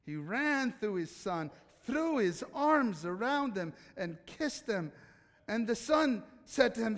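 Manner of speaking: reading scripture aloud to the congregation. Acted. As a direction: read the passage with feeling. Reads Bible passage aloud.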